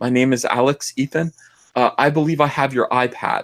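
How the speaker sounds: small, meek, timid little voice. Retelling a phone call from a stranger who has the iPad: imitating a timid little voice. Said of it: "a timid little voice on the telephone".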